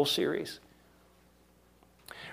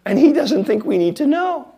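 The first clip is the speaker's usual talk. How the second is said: laughing; 9 semitones higher, 5 dB louder than usual. Real, not acted. Joke line with laugh.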